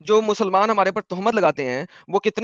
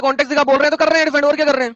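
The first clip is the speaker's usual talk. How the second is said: heated retort; 5 semitones higher, faster than usual. Real, not acted. Heated religious argument.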